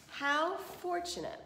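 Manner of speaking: high, slow, sly smirk; smirking wolf. A narrator's reading. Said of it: "The wolf smirked".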